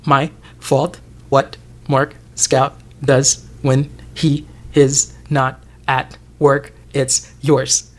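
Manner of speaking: slow, deliberate quoted lines; slow mock-menacing Milchick; imitating Milchick. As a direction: spell it out slowly and pointedly. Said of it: "how he broke it down for him".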